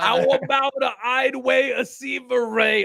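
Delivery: "Idway" and "Seaver Ray" in Pig Latin. Acted. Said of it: "in Pig Latin".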